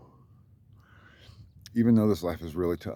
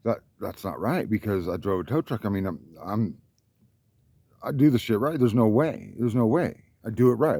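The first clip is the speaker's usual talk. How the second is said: indignant thought. Retold or imitated. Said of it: "And I was thinking".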